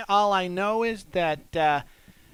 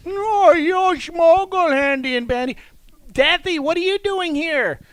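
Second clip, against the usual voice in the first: character voice; 5 semitones higher than usual. Acted. New character arrives in cell.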